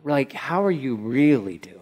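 hushed, caring check-in; gentle whisper. Retold or imitated. Friend asks gently, whispered.

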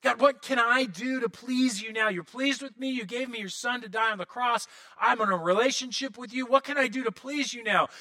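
put-on a touch of joyful childlike eagerness; eager, glad. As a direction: ask it gladly, secure in being loved. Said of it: "that's the kind of attitude we're talking about".

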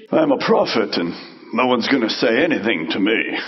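mock arrogance. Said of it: "don't get this picture".

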